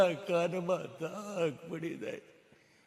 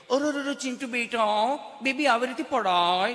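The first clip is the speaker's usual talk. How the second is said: fussing mother; 6 semitones higher, 5 dB louder than usual. Retold or imitated. Mother fussing over fallen child.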